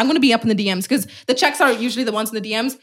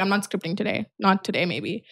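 mopey mutter; 6 semitones lower, 8 dB quieter than usual. Retold or imitated. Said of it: "I'm like".

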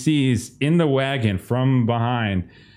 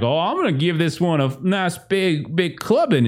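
threatening farmer; 6 semitones higher than usual. Acted.

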